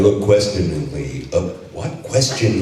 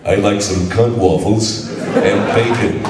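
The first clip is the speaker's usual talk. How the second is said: Duke Nukem. Pretend. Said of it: "I want to hear Duke Nukem say".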